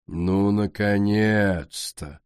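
slow, smirking drawl; mock the latecomer, slowly. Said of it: "усмехнулась королева".

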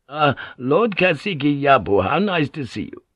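a touch of put-on courtesy; polite greeting. Secretary welcoming Lord Yabu, lightly effusive.

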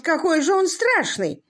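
high, startled outcry; exclaiming in horror. A narrator's reading. Earl shrieks at the muddy prisoner, high startled outcry. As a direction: recoil at the sight and cry out. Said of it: "вскричал лорд Эмсворт".

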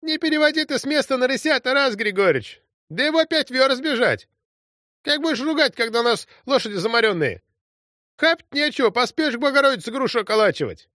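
high, whiny, tearful complaining; whining womanish voice. A narrator's reading. Platoon leader wailing at the commander about tired horses, whiny. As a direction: wail at the commander like a weeping peasant woman. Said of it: "плачущий бабий голос Афоньки Биды".

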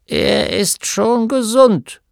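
pleading to be next; eager gnome. A narrator's reading. Gnome husband voiced. (Gnom drängelt bei seiner Frau, höher und langsam)

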